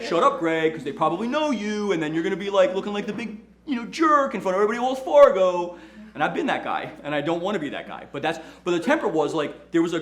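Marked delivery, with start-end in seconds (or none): 0.0-5.8 inner voice scolding. Retold or imitated. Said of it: "this other voice inside my head is like".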